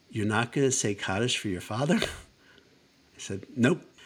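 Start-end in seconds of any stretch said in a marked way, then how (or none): 0.2-2.0 gentle, mild, understated, rapid speech. Retelling the Rebbetzin's repeated question to him, retelling her quiet voice. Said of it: "the Rebbetzin said in her quiet voice".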